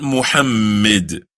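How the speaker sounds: Muhammad with an unstressed, short middle vowel; Muhammad said carelessly, ending in mid; wrong pronunciation. Shown as a demonstration.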